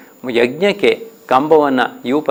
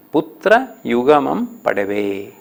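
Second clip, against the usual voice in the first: poem recitation; slower than usual. Shown as a demonstration. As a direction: recite the line slowly. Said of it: "ಹದಿನಾರನೇ ಪದ್ಯ". (ನಿಧಾನ ಪದ್ಯ ವಾಚನ)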